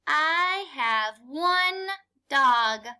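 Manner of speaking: slow, stressing one; teacher model sentence, slowed down. Shown as a demonstration. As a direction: read it slowly to the class. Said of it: "read the sentence".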